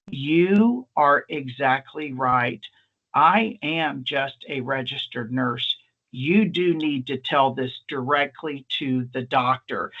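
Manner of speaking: slow, deliberate, earnest delivery; mock-solemn. Nurse humoring the drunk visitor, mock-solemn. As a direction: spell it out gravely, word by word.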